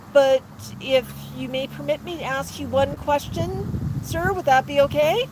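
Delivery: gently deferential request, lightly acted; courteous, slightly hesitant asking; polite parrot. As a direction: ask meekly, as a humbled parrot. Chastened parrot politely asking owner.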